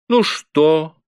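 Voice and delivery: a hint of folksy squire chatting up the bailiff; mock folksy. A narrator's reading. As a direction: play the jovial squire. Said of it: "желал подделаться под мужицкую".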